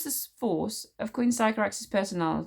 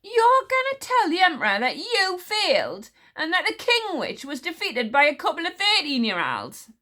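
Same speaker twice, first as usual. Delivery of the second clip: gentle surprise; 10 semitones higher, 5 dB louder than usual. A narrator's reading. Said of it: "in a tone of gentle surprise".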